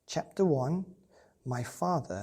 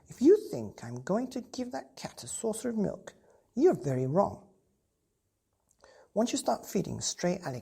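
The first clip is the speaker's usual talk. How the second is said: scolding mother; 2 semitones higher than usual. Acted. Mother refusing to feed the stray cat, indignant scolding. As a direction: put your foot down as the cross mother.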